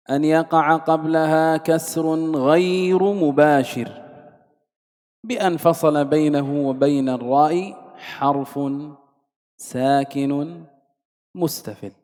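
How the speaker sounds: slow, sustained reading of a classical rule; deliberate, chant-like Arabic reading; measured text recitation. Shown as a demonstration. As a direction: recite the rule on a level tone, drawing out long vowels. Reads out the lesson's text.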